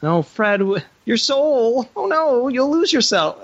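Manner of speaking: high, whiny mock concern; mocking worried friend. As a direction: mimic a fretting, overdramatic friend. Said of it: "I didn't get that whole".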